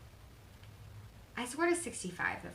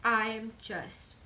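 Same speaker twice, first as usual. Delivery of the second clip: crying; 3 semitones higher, 4 dB louder, much slower than usual. Real, not acted. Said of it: "I love that I'm crying".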